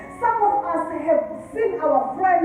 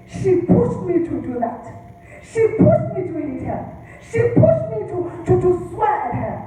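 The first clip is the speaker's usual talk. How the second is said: building, louder and higher protest, the pitch jumping on the second pushed; mock indignant excuse; 5 semitones higher, 3 dB louder than usual. Abuser blaming his wife, in a rising, indignant protest. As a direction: blame her, getting more worked up each time. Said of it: "he can say".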